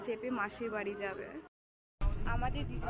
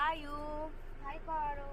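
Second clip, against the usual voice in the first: higher-pitched call to someone; raised-pitch, coaxing call; 5 semitones higher, slower than usual. Real, not acted. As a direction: call out to get them to wave hello. Calling child to say hi.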